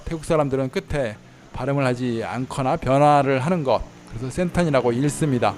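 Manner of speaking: usual speaking voice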